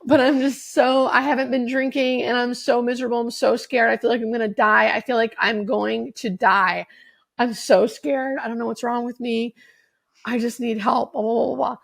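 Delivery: reliving the sob at the meeting, voice catching; retold crying plea. Newcomer confessing at her first meeting, tearful and pleading. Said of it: "hysterically crying".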